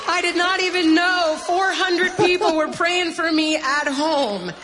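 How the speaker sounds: high, loud, slow outpouring; real overwhelmed emotion. Real, not acted. Testifying that hundreds prayed for her, overcome. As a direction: cry it out, overcome by the memory.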